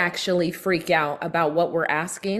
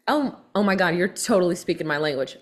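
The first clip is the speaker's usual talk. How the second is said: mock fast talk; faster than usual. Shown as a demonstration. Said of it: "I start talking really fast".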